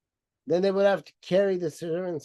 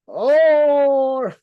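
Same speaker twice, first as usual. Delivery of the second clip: laughing; 7 semitones higher, 8 dB louder than usual. Real, not acted.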